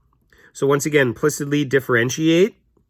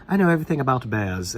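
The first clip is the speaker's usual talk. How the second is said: put-on British accent. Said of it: "girl in there talks into a British accent".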